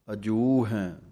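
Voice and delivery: ਅਜੂ ਹੈ drawn out, tune sinking down; drawn out, falling. Shown as a demonstration. Teacher shows students ਅਜੂ ਹੈ drawn out and falling. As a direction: stretch ਅਜੂ ਹੈ and let it fall. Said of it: "ਥੋੜ੍ਹਾ ਜਿਹਾ ਲਮਕਾ ਕੇ ਥੱਲੇ ਨੂੰ".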